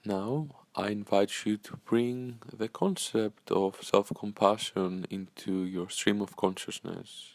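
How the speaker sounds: calm, unhurried meditation guide with long pauses; measured, soothing guidance, leaving space after each phrase; guided meditation. Acted. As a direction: gently lead listeners into breathing and stillness.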